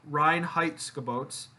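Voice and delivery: Reinheitsgebot spelled out slowly, syllable by syllable; careful German name. Shown as a demonstration. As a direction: say Reinheitsgebot slowly, sounding out each part. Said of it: "I'm gonna butcher this name".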